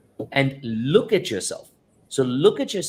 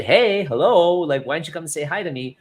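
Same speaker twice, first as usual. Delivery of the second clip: a sharp, higher, louder call for attention; wife calling louder; 6 semitones higher, 4 dB louder than usual. Retold or imitated. Wife ignored a second time, calls out, high and loud. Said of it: "Then the second time she said".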